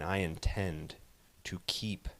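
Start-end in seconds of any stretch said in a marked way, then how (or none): 1.4-2.1 menacing whisper. Acted. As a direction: whisper the threat. Threat to opponent.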